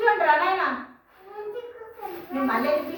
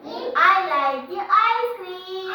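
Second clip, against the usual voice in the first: slow drill; much slower than usual. Shown as a demonstration. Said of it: "teacher drills phrase slowly".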